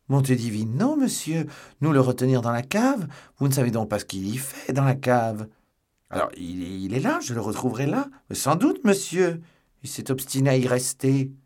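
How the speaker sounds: high, loud, scandalized innkeeper; protesting innkeeper. A narrator's reading. Innkeeper indignantly denies holding Athos, protesting high and loud.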